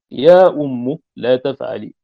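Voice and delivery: "يا أم" with the mim ending in a damma, slowed a little. Shown as a demonstration. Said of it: "بالضم". ("يا أمُّ" بضم الميم)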